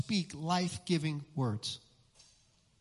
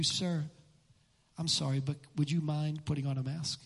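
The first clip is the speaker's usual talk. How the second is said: softly lowered, gentle appeal; calm and considerate, pitched low; kind, polite request; 6 semitones lower, 4 dB quieter than usual. Acted. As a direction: model a courteous, apologetic ask. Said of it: "A kind word".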